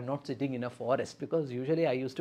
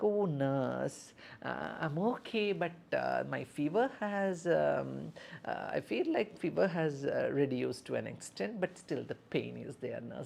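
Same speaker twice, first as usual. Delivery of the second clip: patient complaining; 4 dB quieter, much slower than usual. Shown as a demonstration. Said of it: "the patient will be saying like".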